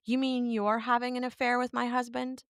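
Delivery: mock taken-aback questioning; imitated disbelieving wife.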